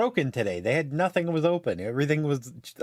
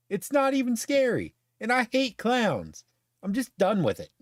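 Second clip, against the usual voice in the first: exasperated rant; 4 semitones higher than usual. Retold or imitated. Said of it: "And I'm like".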